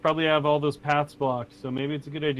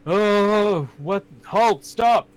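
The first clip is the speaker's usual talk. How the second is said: high, loud cry to halt; dramatic, raised-voice command; Sturm; 8 semitones higher, 7 dB louder, much slower than usual. Acted. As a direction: call out like a delirious knight ordering a stop. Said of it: "that's when Sturm starts to".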